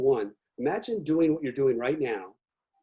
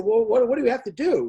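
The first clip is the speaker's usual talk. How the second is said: higher, louder eager asking; eager plea; 8 semitones higher, 7 dB louder than usual. Retold or imitated. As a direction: beg to know the catch. Boys pleading for the ride.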